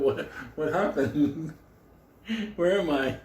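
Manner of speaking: dazed, just-woken bewilderment; groggy confusion. Acted. Storyteller acts out waking from a nap, groggy and confused.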